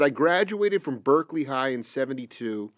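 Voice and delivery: quietly reciting someone's account from the page; reading aloud. Real, not acted. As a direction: read out an interview quote evenly and low. Reads an interview quote aloud.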